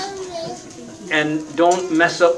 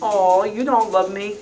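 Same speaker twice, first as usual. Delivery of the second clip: mock bawling; 5 semitones higher than usual. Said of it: "and it starts bawling".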